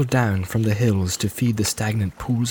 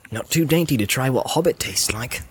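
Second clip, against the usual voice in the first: Sam voice; 2 semitones higher than usual. Acted. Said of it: "thought Sam".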